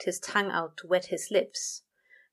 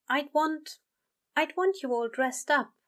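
gently; 8 semitones higher than usual. Acted. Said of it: "he said gently".

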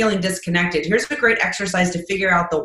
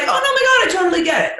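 much higher, eager "no, my God" forgiveness; gushing reassurance; 10 semitones higher, faster than usual. Retold or imitated. The listener forgiving the late speaker, high and eager. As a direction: rush to forgive, delighted. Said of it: "Then you're like".

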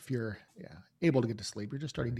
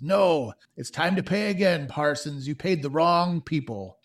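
louder, raised thug threat; menacing thug; 5 semitones higher, 9 dB louder than usual. Acted. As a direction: lean in and menace him. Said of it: "And the other man says".

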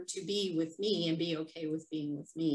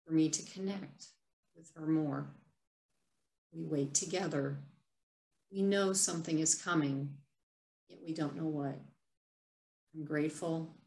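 reading a personal poem. Acted. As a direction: read it like a private journal entry, gently. Reads her own written piece aloud.

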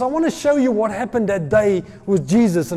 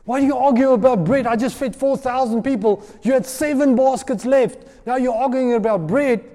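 exasperated Jesus; 5 semitones higher than usual. Retold or imitated. Jesus exasperated at disciples arguing over bread, raised and incredulous. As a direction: play Jesus, half amused, half fed up. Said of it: "I think Jesus went like this".

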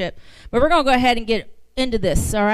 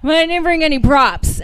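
giggling through the line, higher; laughing; 7 semitones higher, 6 dB louder than usual. Real, not acted. Guest preacher joking to the congregation about props, laughing. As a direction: laugh out the words.

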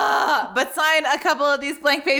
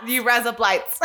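a light Aussie twang, laughing; Australian accent. Shown as a demonstration. Co-host repeating the demo, light Australian accent. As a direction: echo it in a hint of Australian. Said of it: "Australian accent".

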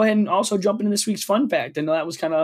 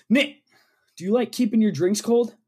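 mock ad read; 3 semitones higher than usual. Performs a mock sponsor read.

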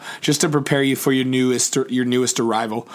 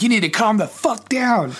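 higher-pitched, emphatic mock scolding; retold exasperation; 8 semitones higher than usual. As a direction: re-enact telling a partner off. Re-enacting quarrel with partner.

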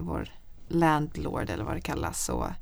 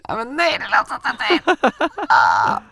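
high, louder squeaky mock voice; embarrassed self-mockery; 8 semitones higher, 9 dB louder than usual. Mocking how dorky her own answer sounded. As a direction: lampoon your own awkward reply. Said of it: "säger jag så här".

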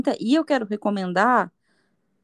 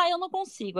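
put-on higher, softer child's complaint; criança desistindo; 8 semitones higher, 6 dB quieter than usual. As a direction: lightly voice a child giving up, high and small. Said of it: "a criança vira e fala". (criança desistindo, voz fininha e baixinha)

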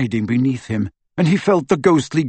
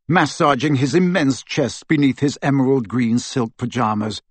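usual speaking voice

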